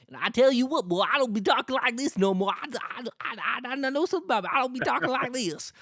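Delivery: put-on thick Southern accent. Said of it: "there's still people who talk like that".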